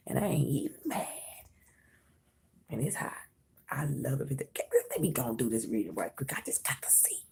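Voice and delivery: hushed whisper. Real, not acted. Whispers the reading.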